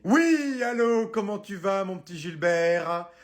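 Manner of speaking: fake-nice greeting turning into threats; threatening phone call. Wife calling husband's boss, sugary then menacing.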